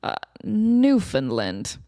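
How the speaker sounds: slow, smug explanation; smug defense. Retold or imitated. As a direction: drag it out haughtily. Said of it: "Mike's like".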